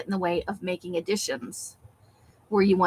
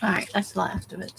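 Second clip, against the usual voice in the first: finishing a mouthful of chips; crunching chips; 2 semitones lower, 4 dB quieter than usual. Real, not acted. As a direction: mouth full, chewing. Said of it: "Pardon my crunching".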